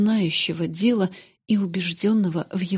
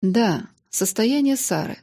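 coldly; 2 semitones higher than usual. Acted. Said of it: "холодно сказал мистер Кармикл".

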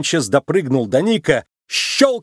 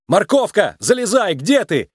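calling out; 7 semitones higher than usual. A narrator's reading. Nick calls out to Judy from the cable car. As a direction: call out to her across the gap. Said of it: "звал Ник".

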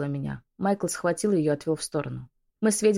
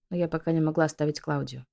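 usual speaking voice

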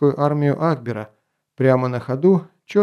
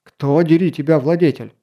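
exclaiming; 2 semitones higher, 3 dB louder than usual. Acted. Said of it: "вскричал граф".

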